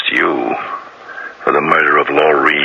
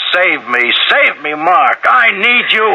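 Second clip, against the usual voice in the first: terrified cry for help; 14 semitones higher, slower than usual. Retold or imitated. Detective reenacting the victim's cry to the suspect, panicked. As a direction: call out desperately for Mark. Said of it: "she called out".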